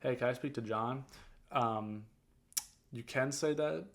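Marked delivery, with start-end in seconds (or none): 0.0-1.0 steady, sure request for John; confident ask. Shown as a demonstration. Caller asking the receptionist for John, with confidence. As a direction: ask for John like you belong. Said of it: "you say it with confidence".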